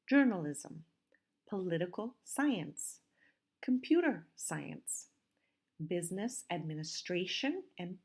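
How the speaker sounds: deliberate word list, stressed syllables brought out; careful model pronunciation. Shown as a demonstration. Teacher says listen how I pronounce them, careful stressed model. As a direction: read each term carefully, marking its stress. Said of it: "listen and see how I pronounce them".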